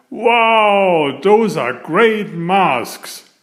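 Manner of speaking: put-on a big boy gasping at the great masks; excited cry. A big boy at the door marvels at the costumes, excited and slow.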